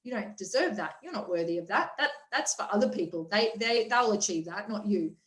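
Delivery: the little voice of limiting beliefs, low and soft; doubting inner voice. Retold or imitated. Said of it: "the other little voice comes in and goes".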